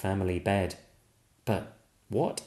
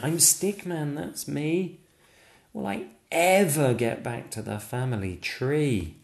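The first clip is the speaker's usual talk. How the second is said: higher, earnest little stick figure voice; protesting Stickman; 7 semitones higher than usual. Acted. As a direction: insist on who you are.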